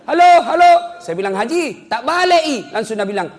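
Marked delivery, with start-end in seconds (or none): 0.0-1.0 loud, high hammed-up phone hollering; mock villager shouting down the line; bellowing into phone. Villager calling his child at the wartel, hollering. 1.3-2.6 high, loud mock exasperation; calling out correction. Narrator telling Haji the handset is reversed, hollering. Calls out correction to phone user.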